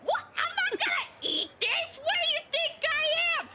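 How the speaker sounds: very high, squeaky indignant retort; indignant protest. Acted. Beetle answers warning not to eat the confetti, indignant protest. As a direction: play-act offended denial way up high.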